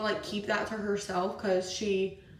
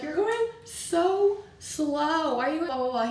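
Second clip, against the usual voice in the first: slow, higher mock yell at him; retold yelling; 6 semitones higher than usual. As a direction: drag out the complaint like you're nagging. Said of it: "I'm literally yelling at Andrew".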